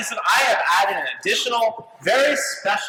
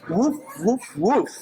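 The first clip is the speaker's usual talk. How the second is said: lightly voiced dog barks, woof after woof; dog barking; slower than usual. Snoopy candidate barking his campaign speech, lightly voiced dog. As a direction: bark like a dog giving a speech. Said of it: "delivering his speech in Portuguese".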